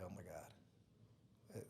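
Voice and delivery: very soft, very slow, breathy disbelief; awed whisper. Retold or imitated. Opening the IRS letter, a slow stunned whisper. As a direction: let it fall out in stunned awe.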